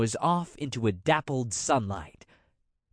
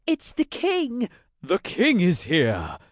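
much higher, excited cries of discovery; thrilled onlookers calling out; excited crowd; 6 semitones higher, 4 dB louder than usual. Acted. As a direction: gasp it out to the others. Visitors spot the king.

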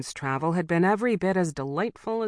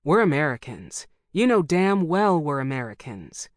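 louder irritated snap at the clerk; snapped; 5 dB louder than usual. Acted. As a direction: bite it off, patience gone. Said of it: "Red Tobin snapped".

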